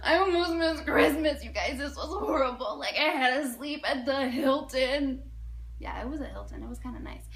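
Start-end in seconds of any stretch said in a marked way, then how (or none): 0.0-5.2 gasp, then hammed-up distress; milk it for sympathy; exaggerated woe. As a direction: melodramatic tale of hardship. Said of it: "I am exaggerating to everybody".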